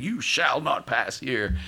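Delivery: a hint of a slow wizard's command; slow, emphatic barring of the way; Gandalf. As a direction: lightly imitate the wizard, drawing the words out. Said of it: "Pull a Gandalf".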